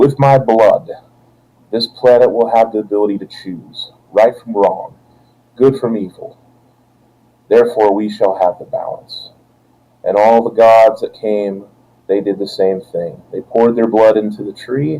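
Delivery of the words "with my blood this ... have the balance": firm, stern voice. Voicing the god Odin as he bleeds onto the tree: stern voice. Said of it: "he says with a stern voice".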